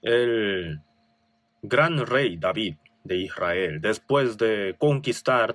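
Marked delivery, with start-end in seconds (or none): none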